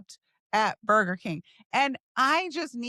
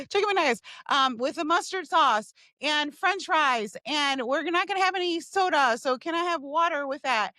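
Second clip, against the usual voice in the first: lightly acted, brisk customer voice; acted drive-through order; 3 semitones higher than usual. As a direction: rattle off the order into the mic.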